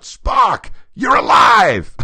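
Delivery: high, loud overjoyed shout; joyful yell. Retold or imitated. Kirk yelling to Spock he thought dead, high overjoyed shout. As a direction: yell it like you just found your friend alive. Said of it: "like this".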